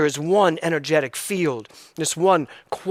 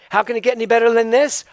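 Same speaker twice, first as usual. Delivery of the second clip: delighted wonder; 6 semitones higher, 4 dB louder, faster than usual. Shown as a demonstration. Joyful exclamation of wonder.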